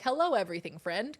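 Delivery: bouncy, greets-everyone dog; eager hello as a friendly dog. Acted. Dog greeting everything as a friend, bouncy voice. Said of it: "dog is like".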